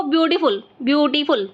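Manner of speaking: "ब्यूटीफुल" sounded out in three beats; syllable by syllable. Shown as a demonstration. Teacher counting chin movements for pupils, "ब्यूटीफुल" syllable by syllable. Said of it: "ब्यूटीफुल में कितनी बार हमारा चे".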